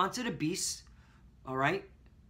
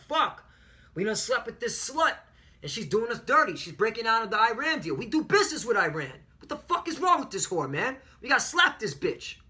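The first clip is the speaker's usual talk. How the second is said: angry nations; 4 semitones higher than usual. Retold or imitated. Nations fed up with the whore America, higher angry mock rant. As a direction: spit it out like a betrayed lover fed up with her. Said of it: "They're like".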